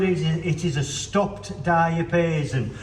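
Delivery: speaking with numb lips after the dentist. Real, not acted. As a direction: lips numb, words a little slurred. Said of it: "my lips are numb and I can't speak very well".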